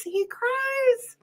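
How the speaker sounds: high, voiceless whisper; whispered aside. Acted. Host whispers to viewers about the crying calf. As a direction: breathe it like a secret about the calf. Reading the crybaby calf book.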